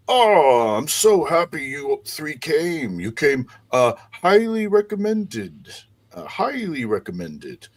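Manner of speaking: high, effusive host, loud at the start; big-hearted mayor holding forth; jovial mayor. Acted. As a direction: gush a welcome with swooping pitch. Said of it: "a jovial voice is".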